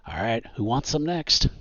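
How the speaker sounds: lightly acted taunt; villain's challenge. Game master voicing villain swirling round on troopers, mild taunt.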